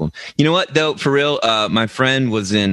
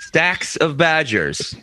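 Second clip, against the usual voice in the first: higher, slow mock British drawl; British accent; 6 semitones higher, slower than usual. Retelling a pub local's line, British accent.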